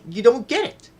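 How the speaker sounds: high, loud mock shout at the mother; retold shout.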